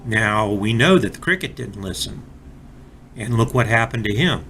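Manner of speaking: put-on gentle read-aloud storyteller for kids; expressive picture-book reading; storybook narration. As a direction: tell it like a bedtime story to small children. Reads a children's story aloud.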